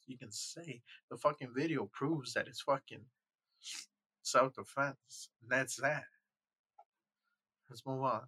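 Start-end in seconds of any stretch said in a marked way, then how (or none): 4.2-5.3 self-defense stretched slow and louder; drawn-out emphasis. Real, not acted. Insisting the video proves it, slow emphatic self-defense. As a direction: lean on self-defense, dragging it out slowly.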